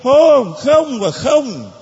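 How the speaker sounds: high, insistent no after no, slowing down; emphatic refusal. Acted. Jesus refusing the pleading woman, emphatic high refusal.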